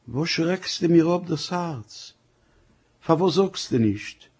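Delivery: high, slow, alarmed outcry from the wife; frightened cry. Acted. Wife alarmed as husband comes in, frightened cry. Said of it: "mit der Note Mäus gerufen".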